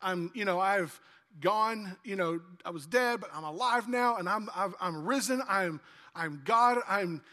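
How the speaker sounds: a hint of a friendly guy saying hi; casual Jesus voice. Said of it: "He's like".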